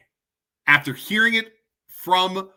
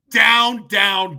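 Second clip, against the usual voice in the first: shouted vow; 3 semitones higher, 6 dB louder than usual. Real, not acted. Vowing the school goes down.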